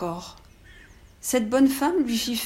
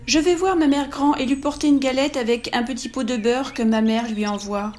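put-on little girl voice; 3 semitones higher, 3 dB louder than usual. Girl answers the wolf.

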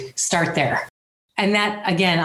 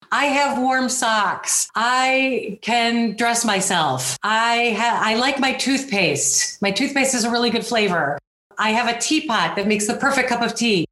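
retold screaming gratitude list; 5 semitones higher than usual. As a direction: call out each small blessing, raised and pleading. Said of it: "I started screaming out".

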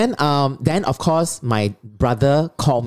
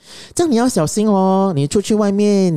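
mother's warning; 7 semitones higher than usual. Retold or imitated. Retold mother warning son.

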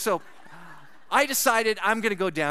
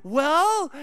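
high, loud impatient well; prompting her to answer, impatient; 7 semitones higher, 4 dB louder than usual. Retold or imitated.

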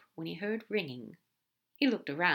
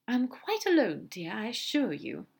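slower, higher start, settling back; lightly voiced angel; 4 semitones higher than usual. Aziraphale assuring Crowley he is alone, lightly in character.

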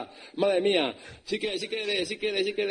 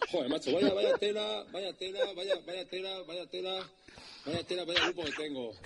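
exasperation trailing off softer; exasperated, fading; 4 dB quieter than usual. Acted. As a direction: sigh it out, dropping away.

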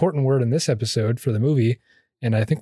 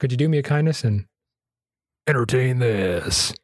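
grand polite request. Shown as a demonstration. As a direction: stretch out entertain like a showman. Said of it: "Did I do it?".

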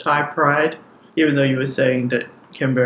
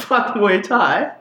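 laughing attempt; 4 semitones higher, slower than usual. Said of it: "imagine there's a little Thai guy".

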